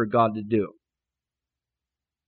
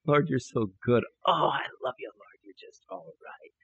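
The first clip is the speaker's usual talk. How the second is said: happy adoration; 4 semitones lower, 5 dB quieter than usual. Retold or imitated. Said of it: "What are you so happy about?".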